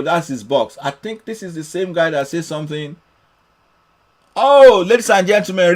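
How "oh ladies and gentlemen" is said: loud, raised showman's address; announcer's call. Real, not acted. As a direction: call the audience to attention, loudly. Announces a comment to viewers.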